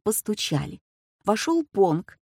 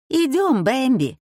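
higher, louder coaxing call; bright call; 6 semitones higher, 3 dB louder than usual. A narrator's reading. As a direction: call the pet along. Servant calls crocodile.

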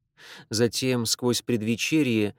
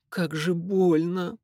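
slow, higher pained moan; 6 semitones higher, slower than usual. Acted. Niece squirms in her dress, slow higher moan. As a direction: stretch it out like a whimper of pain. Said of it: "простонала она".

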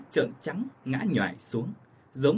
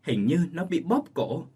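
panicked; 4 semitones higher than usual. Acted. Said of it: "bà Cách Tổng hoảng hốt".

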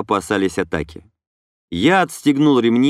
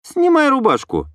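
higher female voice giving an order; commanding young woman; 14 semitones higher than usual. A narrator's reading. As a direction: order him as Inna. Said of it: "велела Инна".

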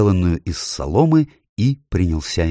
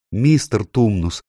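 slow, rising distressed calls; upset cry; 6 semitones higher, 3 dB louder than usual. A narrator's reading. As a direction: call him, more upset the second time. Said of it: "страшно расстроившись, воскликнула Люси".

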